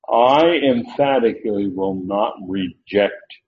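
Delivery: slow, "not" pressed firmly; emphatic. Shown as a demonstration. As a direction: stress will not, slowly. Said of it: "That emphatic".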